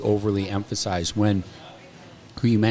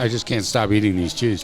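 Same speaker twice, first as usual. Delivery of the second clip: mouth full. Real, not acted. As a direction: still chewing cheese. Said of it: "I'm talking with my mouth full".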